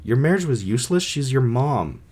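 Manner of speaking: quick, questioning disbelief; incredulous. Real, not acted. Reader balking at the child's line about the marriage, incredulous. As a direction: query it as if you can't believe it.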